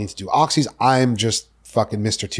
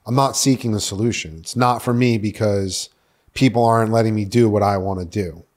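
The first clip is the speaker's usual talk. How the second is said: usual speaking voice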